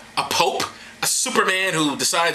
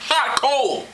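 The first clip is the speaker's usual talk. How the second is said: mock exclamation; 10 semitones higher than usual. Mock warning about the coal.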